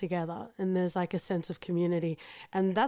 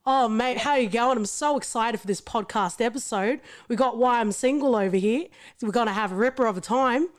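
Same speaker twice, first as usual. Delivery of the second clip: broad Australian bogan accent, lightly done; a hint of broad Australian bogan; 3 semitones higher than usual. Shown as a demonstration. Asked to sample her accent, lightly broad Australian bogan. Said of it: "do you wanna sample your Australian accent?".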